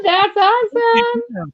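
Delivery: slowed-down voice. Pretend. Slowed sound board voice.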